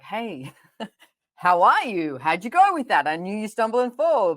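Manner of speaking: loud, high, bubbly hello with a laugh; a mum beaming and cheering on her kid; cheery supportive mum. Pretend. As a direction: gush like a caring mum checking in. Bright supportive mother voice.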